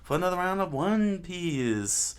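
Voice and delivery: high, loud opening flourish, stretched out; sing-song welcome back to the show; excited show greeting. Real, not acted. Host welcomes listeners to another round, excited greeting.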